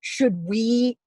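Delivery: rising into a high shriek of alarm; mock panic. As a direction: play the panic up to a scream. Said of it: "You're like".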